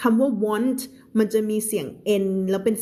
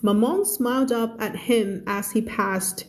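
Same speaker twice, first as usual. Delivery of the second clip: slow, careful story reading for learners; measured teacher's narration; slow read-aloud; much slower than usual. Acted. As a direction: read the story word by word, clearly.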